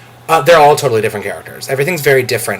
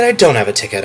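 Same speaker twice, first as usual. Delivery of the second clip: "I don't have a ticket" dropped lower and let down; deflated; 3 semitones lower, faster than usual. Retold or imitated. Retelling the day's ticket seesaw, deflated low take. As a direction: sink the voice, mock disappointment. Ticket hopes going back and forth.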